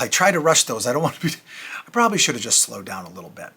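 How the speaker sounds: winded, catching breath between words. Real, not acted. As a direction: talk while still panting a bit. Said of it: "I feel like I'm out of breath now".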